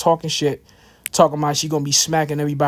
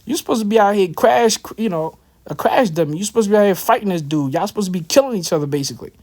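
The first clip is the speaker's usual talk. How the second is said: lightly voiced angry woman, pitched higher; imitating her scolding him to fight; a hint of the girlfriend egging him on; mock girlfriend voice; 5 semitones higher than usual. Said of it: "She's like".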